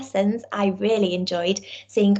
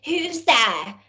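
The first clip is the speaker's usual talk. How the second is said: gruff wolf; 4 semitones higher than usual. Acted. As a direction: growl it from the bed. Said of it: "said the wolf in a gruff voice".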